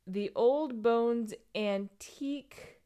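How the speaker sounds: slow, careful reading out; lettura lenta. Real, not acted. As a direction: pick out each word slowly as you read. Reading tiny print off a picture.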